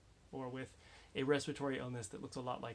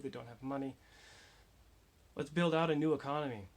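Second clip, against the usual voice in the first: impassioned appeal; 6 dB louder than usual. Real, not acted. Impassioned rallying plea to act.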